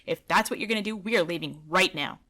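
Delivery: loud, firm and defiant. Retold or imitated. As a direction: stand your ground, raising your voice. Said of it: "I said".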